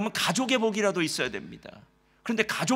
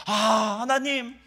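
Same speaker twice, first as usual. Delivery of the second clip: raised, louder mock lament to God; 4 semitones higher, 5 dB louder than usual. Preacher voicing Job cursing his birth, anguished lament. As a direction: cry out to God in complaint, a little higher and louder. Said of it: "이렇게 한탄하더라는 거예요".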